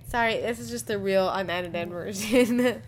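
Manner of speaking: slow, laughing apology. Real, not acted. Laughing apology after being teased.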